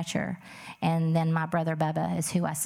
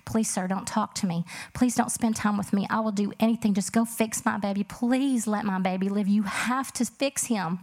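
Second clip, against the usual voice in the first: higher, urgent pleading; desperate begging; 3 semitones higher than usual. Retold or imitated. Mother begging the doctor to save her son, desperate plea. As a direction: plead with rising urgency, slowing on the last demand. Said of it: "I was just begging him".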